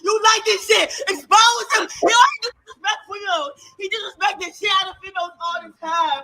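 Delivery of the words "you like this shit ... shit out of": cries out, half laughing, half crying; raised voice, calling him out; real upset, shouting to expose him; tearful yell. Real, not acted. Woman yelling through tears.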